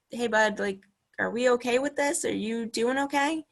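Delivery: Sven checking in. Retold or imitated. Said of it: "Sven comes over to him and says".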